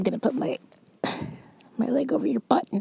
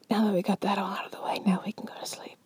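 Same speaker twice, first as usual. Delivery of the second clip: whisper; faster than usual. Acted. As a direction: breathe it to your partner. Whispered ASMR roleplay.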